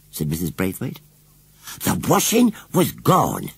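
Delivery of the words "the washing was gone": higher, slow moaning washerwoman. Acted. Missus Briggs telling Missus Braithwaite her loss, slow moan. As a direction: moan it out slowly, woebegone. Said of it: "moaned Missus Briggs".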